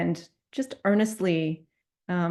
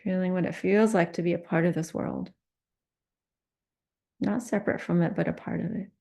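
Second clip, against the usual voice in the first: calm meditation guidance with long pauses; unhurried meditation teacher, pausing often; guided meditation. Real, not acted. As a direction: lead a compassion practice, leaving silence between phrases. Leads a guided compassion meditation.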